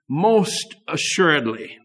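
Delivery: slow, weighty most assuredly; emphatic assurance. Shown as a demonstration. Preacher challenging parents on what they can promise, emphatic assurance. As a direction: stretch out "most assuredly" with conviction. Asks parents to speak with certainty.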